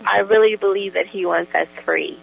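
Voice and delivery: pumped-up heartfelt testimony, bubbling over; really pumped. Real, not acted. Guest testifies to host about her belief, really pumped. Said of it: "you're really pumped".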